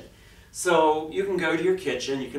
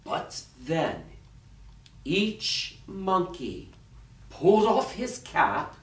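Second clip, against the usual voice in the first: dramatic storyteller with long pauses; story narration. A narrator's reading. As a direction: read it to children, phrase by phrase. Reads a picture story aloud.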